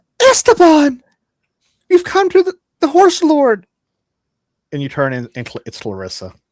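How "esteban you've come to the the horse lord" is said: very high, loud, shrill voice. Narrating a game scene, voicing a character calling out to a player: high pitched shrill voice. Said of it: "you hear a high pitched shrill voice like".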